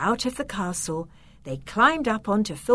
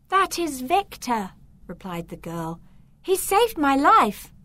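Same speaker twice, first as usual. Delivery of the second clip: put-on eager girl; 6 semitones higher than usual. Beatrice voiced by the reader.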